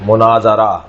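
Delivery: مناظرہ sounded mu-naa-za-ra; model word pattern. Shown as a demonstration. Teacher drilling words of one pattern, model pronunciation of مناظرہ with "za". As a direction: slowly give مناظرہ an open "za". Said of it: "اس وزن کے اور بہت سارے الفاظ".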